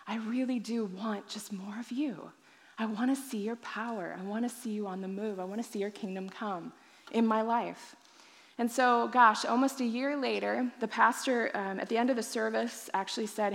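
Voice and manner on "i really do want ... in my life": soft, near-whispered prayer to God; hushed prayer. Retold or imitated. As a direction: pray it under your breath, intimate.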